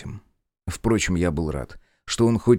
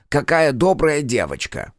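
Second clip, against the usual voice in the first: sarcastic; 7 semitones higher, 4 dB louder than usual. Acted. Centaur sarcastic.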